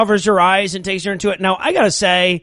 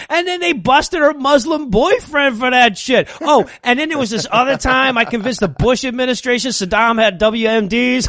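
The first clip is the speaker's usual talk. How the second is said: lightly voiced little girl, higher; 5 semitones higher than usual. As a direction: excitedly confide in a horse as a mock child. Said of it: "the little girl talking to the horse".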